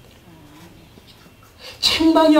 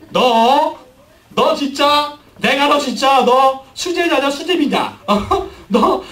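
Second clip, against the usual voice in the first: higher, half-joking rebuke of a disciple; mock scolding; 4 semitones higher, slower than usual. Jesus's inner voice scolding Peter, a mock angry rebuke. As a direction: scold Peter like an exasperated teacher, hammed up. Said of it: "예수님의 속마음".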